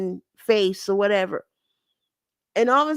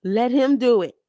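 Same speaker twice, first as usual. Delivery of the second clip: louder, higher retold plea, let him do it; urging him on, replaying the moment; a fan's frustrated cry at the screen; upset pleading; 4 semitones higher, 3 dB louder than usual. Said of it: "I was like".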